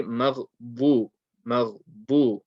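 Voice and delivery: "مغضوب" with a full, heavy Dad; correct heavy Dad. Shown as a demonstration. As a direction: land firmly on the heavy "ḍu" in "مغضوب". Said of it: "Your Dad pronunciation needs to be perfect".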